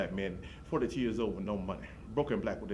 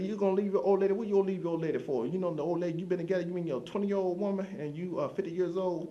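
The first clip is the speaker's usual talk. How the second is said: much higher and louder, disbelieving; incredulous; 9 semitones higher, 4 dB louder than usual. Retold or imitated. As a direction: shoot back in loud disbelief. Arguing with the hub guy.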